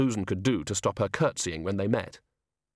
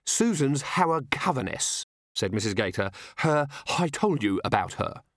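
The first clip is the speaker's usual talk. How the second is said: fluttery Mrs Gator; 3 semitones higher than usual. Acted. Anxious hostess.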